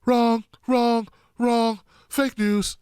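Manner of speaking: a hint of Trump, clipped wrong wrong; Donald Trump impression. The speaker dodging the moderator, a lightly voiced Trump. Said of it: "you sound like you're doing a Donald Trump imitation".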